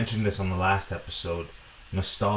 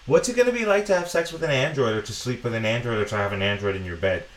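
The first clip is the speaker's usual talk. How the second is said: imagining fanboy; 3 semitones higher, much faster than usual. Acted. Podcaster imitating fanboys imagining android romance, lightly mock-wondering. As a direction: rush it out as a hint of a wondering fanboy. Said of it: "fanboys who are imagining".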